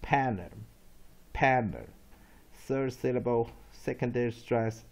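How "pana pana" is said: "panner" with a weak, unstressed uh ending; weak second A. Shown as a demonstration. Teacher repeating the weak-syllable drill, falling "panner". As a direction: stress "panner" up front, let the ending fall to a schwa. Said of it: "without A".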